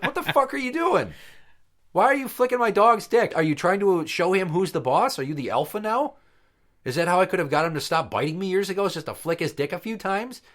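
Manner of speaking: high, laughing disbelief; indignant and amused, pitched high; laughing outrage. Retold or imitated. To the friend flicking his dog, high laughing disbelief.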